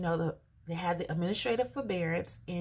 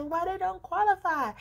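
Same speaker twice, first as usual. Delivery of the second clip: repeated, higher and louder, pushing; agitated; 12 semitones higher, 6 dB louder than usual. Retold or imitated. Repeating the question to the agent, high and agitated. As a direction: demand it again, worked up. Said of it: "Sorry for the shaking 'cause I'm excited".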